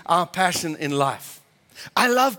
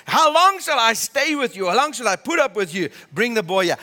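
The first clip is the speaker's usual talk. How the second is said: acted impatience, starting high then settling; exasperated rebuke; 3 semitones higher than usual. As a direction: demand it like a master out of patience. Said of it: "don't think this was over a cup of tea".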